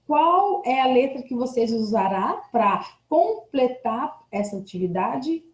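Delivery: ordinary talk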